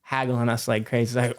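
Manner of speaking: ordinary delivery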